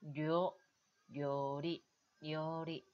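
료 held long, ryoo, before 리; slow, lengthened 료 in 료리; long vowel. Shown as a demonstration. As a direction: stretch the o of 료 in 료리. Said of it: "장음으로".

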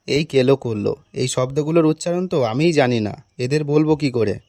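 low-pitched talking to oneself; worried aside. Acted. Teacher privately admits he doesn't know pronunciations, low aside. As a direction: drop the pitch for a private thought.

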